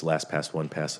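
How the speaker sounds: quick run-through of LastPass; said really fast. Real, not acted. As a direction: rattle off LastPass as one quick word. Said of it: "you say it really fast".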